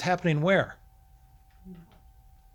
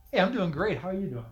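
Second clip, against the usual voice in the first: mock cheerful reply; 5 dB quieter, faster than usual. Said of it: "that's what grumbling looks like".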